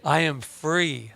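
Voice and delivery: slow declaration. Shown as a demonstration. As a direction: stretch it out slowly. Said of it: "Can you say it with me?".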